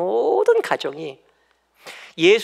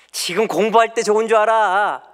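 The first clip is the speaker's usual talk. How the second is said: louder, pitched-up scolding; scolding parent; 5 semitones higher, 6 dB louder than usual. Retold or imitated. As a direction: really tell the kid off. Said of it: "막 야단치면".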